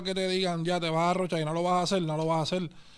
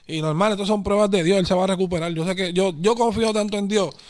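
much louder, passionate declaration of faith; loud, heartfelt insistence; fervent conviction; 7 dB louder than usual. Real, not acted. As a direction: proclaim it like a believer.

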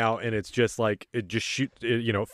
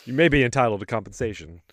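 injury lawyer ad; faster than usual. Acted. Parody of a legal ad ends.

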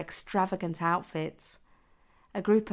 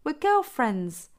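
higher-pitched squeaky; 8 semitones higher, 5 dB louder, slower than usual. Acted. The speaker keeps his forced girl voice.

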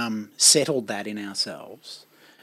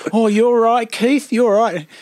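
higher and louder, hammed-up bogan voice; Chopper-style bogan; 9 semitones higher, 7 dB louder, slower than usual. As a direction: play a rough bogan soothing his mate, loud and hammed up. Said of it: "he's, he's going".

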